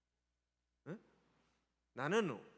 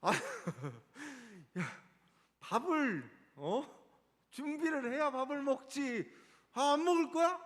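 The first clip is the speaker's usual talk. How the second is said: imitating scolding mom; 5 semitones higher, 4 dB louder than usual. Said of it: "제가 가끔 그래요".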